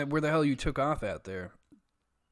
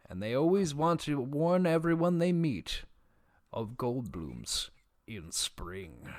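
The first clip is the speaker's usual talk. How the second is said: story narration. Acted. Game master closes the story.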